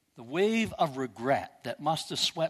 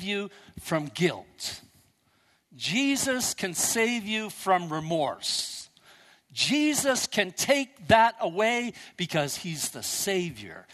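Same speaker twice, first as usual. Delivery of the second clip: slow, emphatic preacher's appeal; preaching; slower than usual. Real, not acted. Pastor urging the congregation, slow emphatic preaching. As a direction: drive each promise home, slowly.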